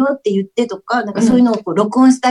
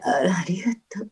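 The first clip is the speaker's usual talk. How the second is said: soft breathy whisper; sexy voice; 4 semitones lower, 9 dB quieter than usual. Pretend. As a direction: whisper it seductively. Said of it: "一番セクシーなのがね、得意なの".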